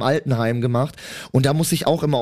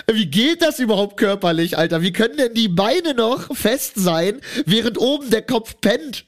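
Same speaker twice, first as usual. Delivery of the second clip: higher, amazed questions; 7 semitones higher than usual. Retold or imitated. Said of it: "ich so". (fassungslos staunend, höher, halb lachend)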